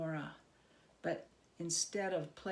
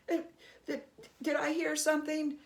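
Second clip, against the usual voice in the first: higher, fast, stammering feigned surprise; mock-innocent Herschel; 8 semitones higher, 5 dB louder, faster than usual. Herschel pretending not to notice the goblin king. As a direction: play dumb, tripping over the words.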